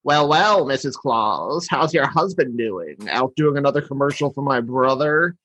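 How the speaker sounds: lightly voiced sly villain; Heat Miser. Heat Miser talking to Missus Claus, lightly sly voice. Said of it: "when Heat Miser talks to Missus Claus".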